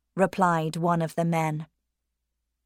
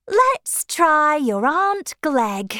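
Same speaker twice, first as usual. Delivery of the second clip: tentative mother; 9 semitones higher, 6 dB louder, slower than usual. A narrator's reading. Mother's hesitant suggestion.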